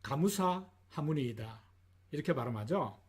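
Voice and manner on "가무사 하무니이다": 가무사 하무니이다 with the extra vowels spelled out; imitating a Japanese actor saying 가무사 하무니이다; japanese accent korean. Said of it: "일본인 역할을 하는 배우들이 발음할 때 흔히들 이렇게 발음합니다". (일본인 말투 흉내)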